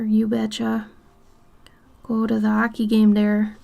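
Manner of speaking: leaned-in caricature of Minnesotan speech; heavy Minnesota accent. Shown as a demonstration. Streamer parodying by-the-book Minnesotan phrases, leaned-in Minnesota accent. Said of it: "But I don't lean into it like".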